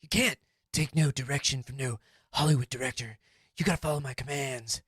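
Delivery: a hint of a stern martial-arts star scolding; calm, menacing tough guy, lightly done; Steven Seagal impression. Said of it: "I'm definitely going to be Steven Seagal".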